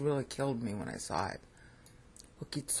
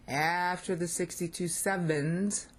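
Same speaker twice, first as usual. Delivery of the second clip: AFTER stretched and raised, phrase held up to a rise; emphatic stress; 3 semitones higher, slower than usual. Real, not acted. Teacher stressing a key word to students, emphatic. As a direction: lean hard on "after", tune left hanging at "sevens". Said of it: "This is really important".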